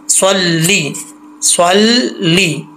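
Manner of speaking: slow स्वल्ली, thick s, ending "lee", never "lay"; correct heavy reading. Shown as a demonstration. Teacher repeating the correction, स्वल्ली with a clear "lee". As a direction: draw out स्वल्ली with heavy saad and long "ee". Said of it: "इसको ले नहीं पढ़ना".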